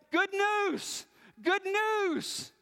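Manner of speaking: high, ringing cry of good news; joyful shout. Acted. Runner shouting the news to the city, high ringing shout. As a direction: call it out like a runner arriving with victory news. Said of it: "He starts shouting".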